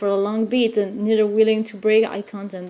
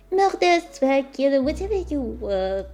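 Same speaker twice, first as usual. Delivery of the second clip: put-on French accent; 2 semitones higher, 5 dB quieter than usual. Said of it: "the subtle French accent".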